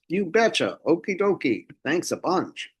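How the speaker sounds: a quick cheery Minnesota impression; Minnesota accent. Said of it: "The Minnesota accents in Fargo".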